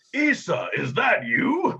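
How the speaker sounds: high, loud, stretched call of recognition; excited greeting. Acted. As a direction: shout across the room to an old friend. Orc spots old friend, calls out.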